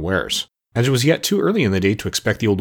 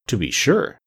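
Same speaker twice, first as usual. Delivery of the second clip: thoughtful; slower than usual. Acted. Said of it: "said Mombi thoughtfully".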